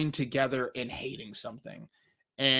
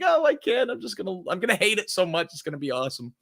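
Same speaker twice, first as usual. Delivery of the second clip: mock giddy dread; faster than usual. About to start Morbius, mock excited then falling. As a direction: hype yourself up to hate it. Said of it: "I'm like".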